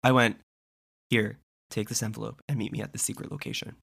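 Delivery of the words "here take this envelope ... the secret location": hushed secret agent voice; spy voice. Pretend. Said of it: "do it in your spy voice".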